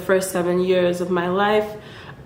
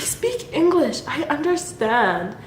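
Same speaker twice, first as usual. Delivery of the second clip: retold frustrated yell; 6 semitones higher than usual. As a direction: imitate your frustrated younger self protesting. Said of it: "me yelling at them for that".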